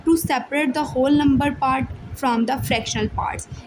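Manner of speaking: very slow, word-by-word dictation; slow book dictation to students; dictation reading. Shown as a demonstration. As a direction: read it out slowly so they can copy. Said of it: "kindly इसको आपने लिख लेना है अपनी book पे".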